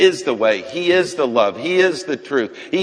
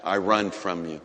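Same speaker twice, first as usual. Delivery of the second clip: defiant denial; 4 dB louder than usual. Acted. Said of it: "I said".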